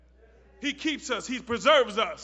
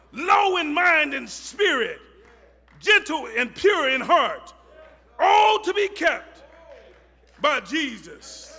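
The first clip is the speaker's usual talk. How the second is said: preaching at full force; 3 semitones higher, 6 dB louder than usual. Acted. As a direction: whoop it up like a Black church climax.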